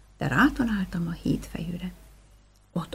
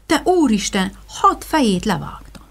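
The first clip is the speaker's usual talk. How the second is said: horrified; 3 semitones higher, 7 dB louder than usual. Acted. Hero realizes his terrible deed.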